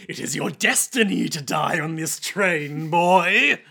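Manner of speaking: hammy in-your-face threat, loud on the last word; theatrical menace building to a loud "boy"; mock menacing. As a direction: get up in his face like a cartoon villain. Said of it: "Getting up in his face".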